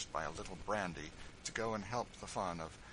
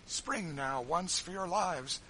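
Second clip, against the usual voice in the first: high, loud and slow urgent command; slow, loud urgent order; urgent call; 10 semitones higher, 6 dB louder, slower than usual. A narrator's reading. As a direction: drive them to jump now. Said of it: "said he".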